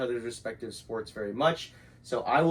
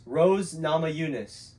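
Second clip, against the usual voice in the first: slow, exaggerated mouthing; over-articulated; slower than usual. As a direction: spell it out with big lip movements. Mouthing names for lip reading.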